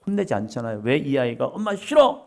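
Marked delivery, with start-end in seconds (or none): 1.5-2.2 put-on child's yell. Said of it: "이 얘기를 하는지를".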